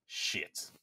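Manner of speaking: voiceless muttered curse; whispered dismay. Retold or imitated. Guard realizes the two rules clash, whispered dismay. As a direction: let the swear out under the breath.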